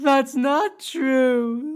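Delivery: crying, high, tearful, drawn-out sobbing. Character answering what was just said about their parents, crying. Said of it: "(crying noises)".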